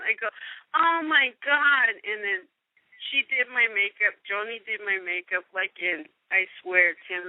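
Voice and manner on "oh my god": slow swoon. Retold or imitated. Retold swoon.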